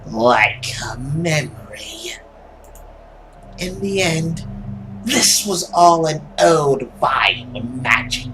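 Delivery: slow, dramatic villain monologue; lightly voiced dark inner monologue; brooding monster. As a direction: voice a tormented creature vowing power. Dream monologue continues.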